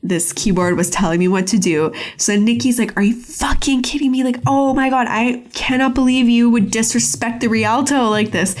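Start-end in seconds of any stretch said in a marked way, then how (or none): 0.0-1.9 lower, halting mock confession; retold sheepish confession. Pepper Ann confessing her lies to Nikki, lightly acted sheepishness. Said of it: "finally confesses to Nikki". 3.0-8.6 higher, lightly acted indignation; retold upset outrage. Nikki reacting to Pepper Ann's confession, mock outrage. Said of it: "she's so upset".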